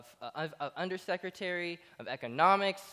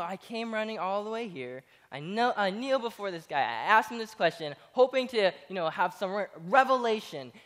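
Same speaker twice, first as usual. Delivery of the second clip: frustrated inner voice; 4 semitones higher, 4 dB louder than usual. Retold or imitated. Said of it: "he's like, in his mind".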